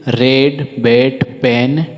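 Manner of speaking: रेड, बैट, पेन very slowly, one by one; short e demo. Shown as a demonstration. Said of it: "इसका उच्चारण जो है सो ए हो जाता है".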